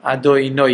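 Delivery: "Adonai" pronounced Adonoy with an oy ending; Ashkenazi pronunciation. Shown as a demonstration. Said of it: "like that, in that way".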